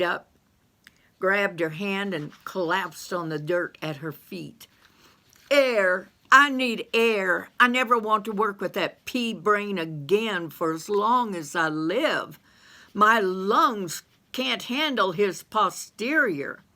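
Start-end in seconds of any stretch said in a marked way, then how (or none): 5.5-16.6 high, loud, gasping for air; a high-voiced yokel dragging in air; breathless Carl. Carl's voice, out of breath.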